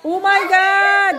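slow amazed laugh through words. Real, not acted. Laughing at clown face.

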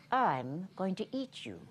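mock threat with a laugh. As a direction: chuckle through the threat.

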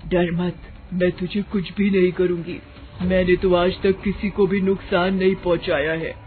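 lightly voiced witch, even pitch; calm the frightened visitor as a witch; reassuring witch. Witch tells Varsha not to fear, reassuring witch.

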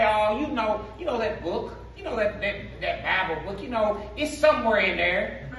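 a fumbling, offhand churchgoer who can't find the verse; mocking vague talk. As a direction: mimic someone vaguely waving at the Bible. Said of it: "we talk like this".

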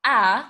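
the Arabic a question marker said alone and loud; clear a sound. Shown as a demonstration. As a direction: say "a" as a short open vowel, clearly stressed. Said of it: "You can start the sentence with".

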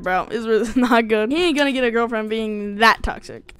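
ordinary talk, nothing marked

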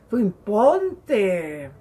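slow, loud, pushy mock command; drawn-out loud imitation of worldly advice; defiant command. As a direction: lean hard on it like the world telling you to assert yourself.

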